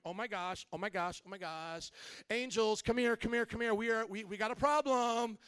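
panicky, whiny mock fretting from heaven; silly effeminate Jesus. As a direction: play a flustered, effeminate Jesus, rising into fuss. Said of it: "Jesus sounds like an effeminate guy".

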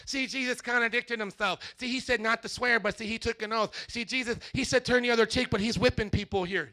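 lightly voiced smug skeptic; a hint of a preachy know-it-all; mocking know-it-all. Pastor imitating street skeptics, mildly mocking. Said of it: "they sound like this too".

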